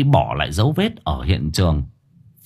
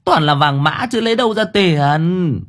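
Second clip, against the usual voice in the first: a mild cry of alarm, higher; mother crying out over the paper money; 7 semitones higher than usual. A narrator's reading. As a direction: exclaim at the fake money. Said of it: "Mụ kêu lên".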